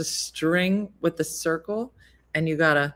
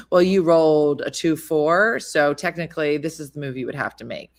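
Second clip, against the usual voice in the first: know-it-all nerd; 2 semitones lower, 3 dB louder than usual. Retold or imitated. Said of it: "She goes".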